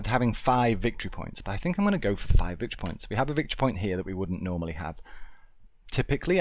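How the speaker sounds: normal talking voice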